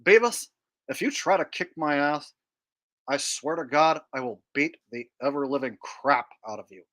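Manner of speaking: lightly voiced cartoon threat; dopey teen warning his pal; Butthead. Threatening to beat up his buddy, Butthead impression. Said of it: "a Beavis and Butthead impression".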